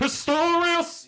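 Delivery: high, slow triumphant name shout; excited exclamation. Real, not acted. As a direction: blurt the name out like a win.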